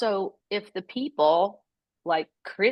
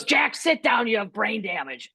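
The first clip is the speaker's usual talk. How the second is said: mock mom yell. Mom to dad trying to get up, mock yell. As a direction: imitate a mother yelling at her husband, mildly. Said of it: "you don't have to yell that".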